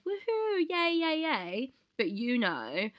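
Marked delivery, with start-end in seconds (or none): 0.0-1.7 high, bouncy imitation of her cheerful persona; mock bubbly cheer. Imitating how friends see her, high and bubbly. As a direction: send up her own relentless positivity. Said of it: "knows me as being, like, this positive".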